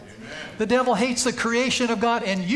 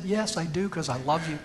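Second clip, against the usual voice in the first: tender reassurance; 2 semitones lower, 4 dB quieter than usual. Acted. God answers the sinner lovingly.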